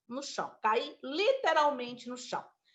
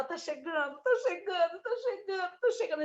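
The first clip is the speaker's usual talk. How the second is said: soothing brother; 6 semitones higher than usual. Retold or imitated. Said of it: "e ficava".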